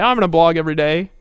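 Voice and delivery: loud eager mock vow again; mock promise. Mocking a member's empty pledge, loud. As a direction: parody the overpromiser.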